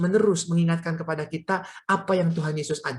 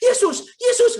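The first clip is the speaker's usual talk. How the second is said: very high, loud mock shriek; retold scream; 5 dB louder than usual. Preacher retelling mother on roller coaster, mock screaming. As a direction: cry out like a panicking mother on a ride. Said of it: "mama saya mulai teriak-teriak".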